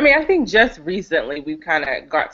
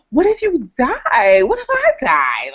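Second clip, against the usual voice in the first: retold plea; 9 semitones higher, 3 dB louder, slower than usual. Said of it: "And I'm like".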